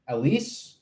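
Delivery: Alice with a long ee, stress on the end, as a question; trying a pronunciation. Shown as a demonstration. Streamer checks how to say a name, Alice as al-EESE. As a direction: try Alice as al-EESE, unsure. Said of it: "am I pronouncing that right?".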